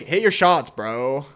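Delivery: lightly put-on Fortnite gamer accent. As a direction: imitate a Fortnite player calling out. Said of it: "the Fortnite accent is".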